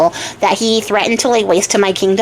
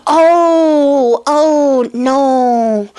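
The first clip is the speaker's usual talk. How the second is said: high, drawn-out wail of dismay; mock wail; 4 semitones higher, much slower than usual. Princess told she can now marry the king, mock wailing. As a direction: moan each word long, hammed up.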